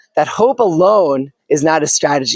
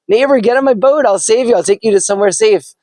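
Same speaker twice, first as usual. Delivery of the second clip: higher, eager call to the neighbor; 5 semitones higher than usual. Acted. Neighbor in a rowboat urges the man aboard, calling out. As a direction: call across the water to him.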